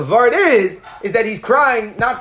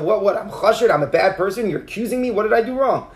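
mildly acted insecure protest; insecure self-defense. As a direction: play someone rattled at being accused. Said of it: "he got very insecure".

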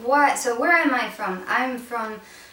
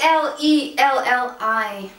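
spelling it out slowly; 2 semitones higher, 6 dB louder, slower than usual. Shown as a demonstration. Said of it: "Tell the world how it's correctly spelled".

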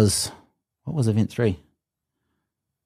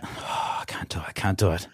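faint, pained near-whisper; nearly out of air, giving up; strained whisper; 3 semitones lower, 9 dB quieter than usual. Retold or imitated. Retold despair mid-lift.

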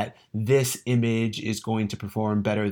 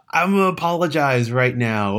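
gruff growly monster voice, a touch higher and louder; Cookie Monster voice; 4 semitones higher, 6 dB louder than usual. Real, not acted. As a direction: growl it out like a furry puppet monster. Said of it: "almost like a Cookie Monster voice".

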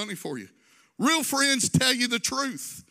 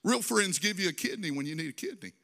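holding back tears; 4 semitones lower, 4 dB quieter than usual. Real, not acted. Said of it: "I'm gonna try not to cry".

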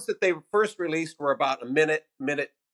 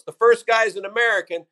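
higher, louder imitated stage intro; bar owner's introduction; 6 semitones higher, 5 dB louder than usual. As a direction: announce it like the flustered bar owner. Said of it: "and his introduction to me".

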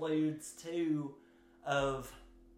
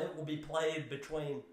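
Boston accent. Shown as a demonstration. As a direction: say it like a Boston local. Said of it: "I apologize for my terrible Boston accent".

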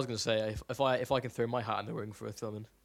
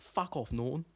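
softer mock Australian retort; Australian accent imitation; 5 dB quieter, slower than usual. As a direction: toss it off as a cartoon Australian. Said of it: "an imitation of this one YouTube".

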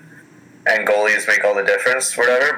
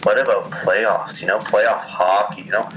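sexy voice; 2 semitones lower than usual. Retold or imitated. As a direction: purr it out seductively. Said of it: "Why are you doing, like, the sexy voice?".

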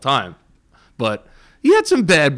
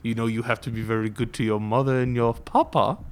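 elf voice; 5 semitones lower, 6 dB quieter than usual. Pretend. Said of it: "Give me your best elf voice".

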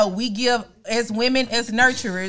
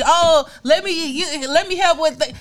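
higher, slow, hammed-up helpful dad voice; mock eager dad; 5 semitones higher than usual. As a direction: drag it out like a dad showing off how helpful he is. Mocking the fun parent dad.

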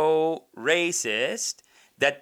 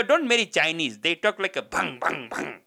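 mock Indian-auntie accent, opening higher and louder; imitated auntie's accent; 3 semitones higher, 3 dB louder than usual. Auntie warning him off at a party, mimicked Indian accent. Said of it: "this is how they always do the accent".

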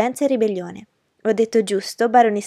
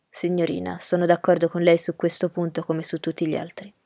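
a lower, courteous gentleman's voice; Rochester's voice; 3 semitones lower than usual. Acted. Rochester politely agreeing with Miss Ingram, in a lower gentleman's voice. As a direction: drop the pitch for a composed, gallant host.

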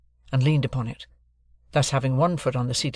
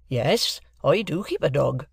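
lightly voiced plain-spoken Joe; blacksmith Joe; 2 semitones higher, slower than usual. Joe refusing payment from the lawyer, lightly voiced honest blacksmith. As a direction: answer with simple honest pride.

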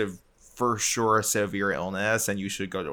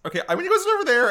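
high, fast chirpy influencer voice; James Charles impression; 6 dB louder, much faster than usual. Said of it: "my James Charles impression".

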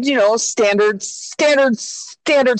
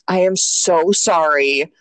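retold gentle apology; 3 semitones lower than usual. Retells apology to her child.

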